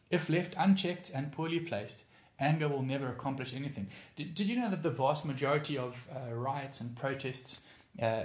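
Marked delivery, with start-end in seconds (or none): 0.1-3.9 slow repeat. Shown as a demonstration.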